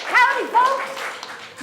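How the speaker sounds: high, loud, slow drawn-out howdy; big cowgirl howdy. Acted. Cowgirl Carol greeting the children, high and slow. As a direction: stretch the greeting out wide and loud.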